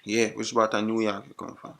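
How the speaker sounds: thick Jamaican patois; put-on Jamaican accent. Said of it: "used my Jamaican accent".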